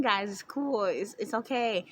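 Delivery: even, matter-of-fact reassurance; retold calm reassurance. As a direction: settle everyone down, understated. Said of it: "I'm not frantic".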